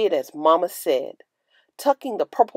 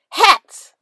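a high, loud burst of excitement; eager shout; 10 semitones higher, 9 dB louder than usual. A narrator's reading. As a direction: shout it out, hand shooting up. Child eagerly calls out.

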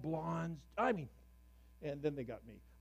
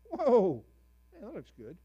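mock halibut; 5 semitones higher, 3 dB louder than usual. Halibut voiced in fish story.

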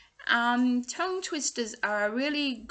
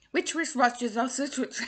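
quick attempt. Shown as a demonstration. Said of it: "you can have a laugh at me".

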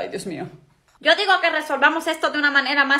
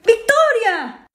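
high, loud, drawn-out call; mother yelling from afar; long call; 8 semitones higher, 4 dB louder, much slower than usual. Acted. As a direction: stretch her name out as you yell. Mother calls again, drawn out.

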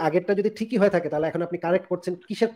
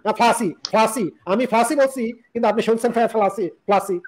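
mock stubborn denial; 3 semitones higher than usual. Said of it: "গাঁটটা তেরা করে যদি বলি".

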